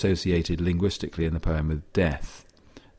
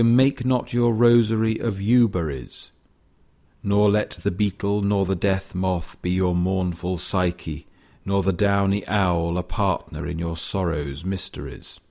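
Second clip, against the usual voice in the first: poetry recitation. Acted. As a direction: read it as measured verse. Recites poem lines.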